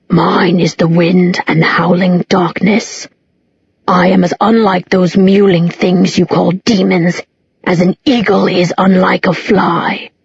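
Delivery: slow, hollow, threatening demon; an ancient demon boasting, slowly; menacing demon voice. Acted. Demon Abaddon speaks.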